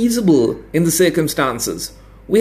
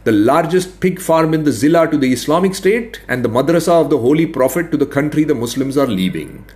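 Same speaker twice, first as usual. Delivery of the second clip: higher, dryly mocking; sarcastic administrator; 6 semitones higher than usual. A narrator's reading. Veteran administrator ridiculing the expert's border, sarcastic. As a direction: lay out the absurdities with polite scorn.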